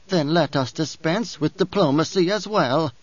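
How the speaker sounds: lightly voiced haughty old priestess; a hint of a proud crone sneering at Paul; old Reverend Mother, disdainful.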